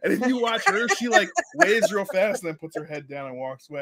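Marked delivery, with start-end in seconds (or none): none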